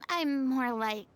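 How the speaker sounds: theatrically smug, with airy chuckles. Acted. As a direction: make excuses with self-satisfied flourish. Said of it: "That sounded so smug".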